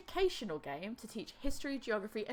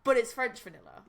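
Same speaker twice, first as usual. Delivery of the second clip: "French" pushed out louder; stress on French; 9 dB louder than usual. Shown as a demonstration. Insisting to a confused friend, "French" punched. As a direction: hit "French" in "But it's French vanilla". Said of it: "It's like vanilla".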